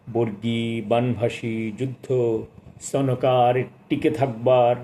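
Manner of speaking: slow, measured recital of a sonnet; poem recitation. Acted. Reading the poet's sonnet aloud to listeners, slow and solemn recitation. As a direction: recite each line with weight, lingering on the rhymes. Announces he will read poem.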